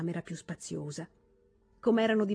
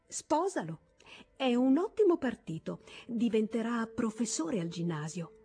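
teasing; 4 semitones higher than usual. Acted. Toni teases her friend.

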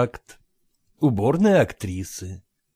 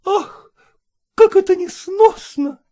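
high, put-on weary sigh; feigned sigh; 6 dB louder, slower than usual. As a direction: pretend to be put out. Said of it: "притворно вздыхает".

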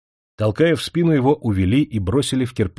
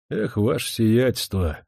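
презрительно; slower than usual. Acted. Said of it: "презрительно сказал Кашкин".

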